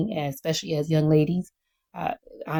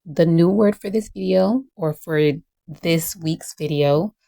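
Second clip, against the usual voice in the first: teacher voice. Acted. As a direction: announce it like a teacher to her class. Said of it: "So I'm going to use my teacher voice".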